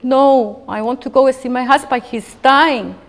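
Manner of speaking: loud, high, hurried pleading; crying plea. Retold or imitated. Mother pleading with soldiers through tears, loud and urgent. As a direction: beg to reach a dying husband. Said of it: "then I started crying".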